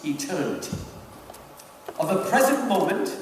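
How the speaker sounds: measured literary reading; reading aloud. Acted. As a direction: read the devil's letter with weight. Reads Screwtape letter aloud.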